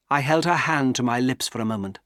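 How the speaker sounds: ordinary delivery, nothing marked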